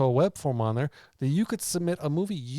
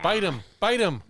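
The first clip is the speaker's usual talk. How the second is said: growly zombie voice, higher; zombie impression; 8 semitones higher than usual. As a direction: play a hungry zombie. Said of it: "That's my impression of a zombie".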